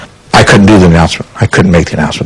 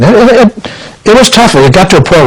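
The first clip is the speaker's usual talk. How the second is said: voice breaking. Real, not acted. Grieving over a singer's death.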